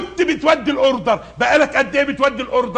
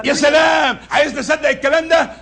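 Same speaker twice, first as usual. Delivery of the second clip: sarcastic shout. Acted. Boss refusing excuse.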